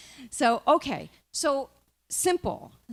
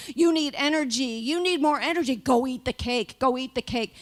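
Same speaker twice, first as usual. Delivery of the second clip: slightly raised, insistent urging; pushy, repetitive craving with a little lift; craving body's voice; 2 semitones higher than usual. Acted. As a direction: egg someone on to indulge. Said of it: "So the body's saying".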